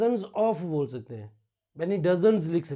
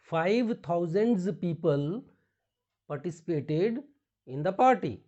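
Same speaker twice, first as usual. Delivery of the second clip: wrong example; much slower than usual. Shown as a demonstration. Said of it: "रॉन्ग".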